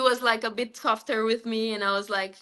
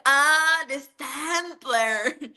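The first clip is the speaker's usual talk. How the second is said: relieved laugh; 3 semitones higher, much slower than usual. Retold or imitated. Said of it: "And I was like".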